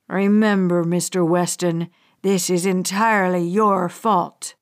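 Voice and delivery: low, deliberate villain warning, punching Remember; cold final threat. Acted. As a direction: menace him one last time. Hijacker's final warning before shooting.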